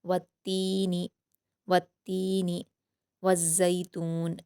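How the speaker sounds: slow, careful Quranic reading; slow recited verse; tajweed recitation. Shown as a demonstration. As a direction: draw the verse out slowly. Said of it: "इसको जल्द पढ़ेंगे".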